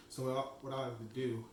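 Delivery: talking through a mouthful; words round a bite of cookie; mouth full. Real, not acted. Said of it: "can't even speak".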